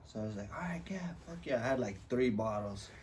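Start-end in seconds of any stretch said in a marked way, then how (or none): 0.5-1.6 fast, breathy whispered yes. Retold or imitated. Retelling his party agreement to friends, fast and whispered. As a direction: whisper it quickly, hyped.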